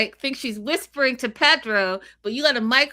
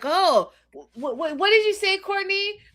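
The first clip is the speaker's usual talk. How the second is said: high, stammering disbelief; mock flustered stammer, pitched way up; playing a flustered gossip; stammering shock; 12 semitones higher than usual. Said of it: "And Pedro's like".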